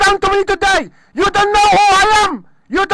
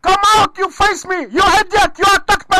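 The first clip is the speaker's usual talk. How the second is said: furious shout. Real, not acted. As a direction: shout him out of the station, fuming. Furious caller yelling at police.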